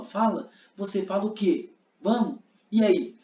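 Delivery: pushy, egging him on; agitating. Shown as a demonstration. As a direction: hurry him to speak. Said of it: "Tipo, eu tô agitando". (agitando, provocando)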